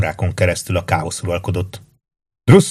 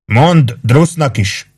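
higher, drawn-out call; shouting back; 6 semitones higher, 3 dB louder, much slower than usual. A narrator's reading. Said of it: "kiáltott vissza Orrin". (elnyújtott visszakiáltás)

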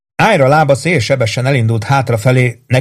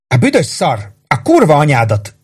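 higher-pitched, understated furious cursing; angry hiss; 5 semitones higher than usual. A narrator's reading. Rose cursing the man who holds her, angry hiss. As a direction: curse him in a raised, angry pitch. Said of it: "sziszegte dühösen Rose".

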